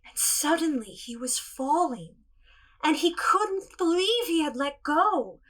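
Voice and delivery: gentle storybook narration; storytelling. Acted. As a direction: tell it to children, unhurried.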